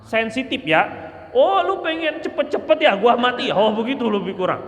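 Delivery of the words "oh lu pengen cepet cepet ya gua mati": higher, indignant snap of a sick man; a touch of angry sarcasm; mock angry retort. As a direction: imitate a touchy dying man lashing out.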